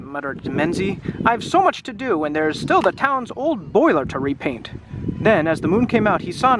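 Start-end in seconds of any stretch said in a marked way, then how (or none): 1.2-4.7 lightly voiced grumbling character; a touch of a funny storybook voice; Menzie's funny voice. Reader voicing Menzie who has so much to do, lightly funny voice. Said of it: "Menzie has a funny voice".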